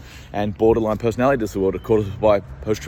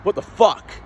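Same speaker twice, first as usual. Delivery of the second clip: mock disbelief; 8 semitones higher, slower than usual. Told off for trespassing, mock outraged. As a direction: blurt it out in mock shock. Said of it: "I'm like".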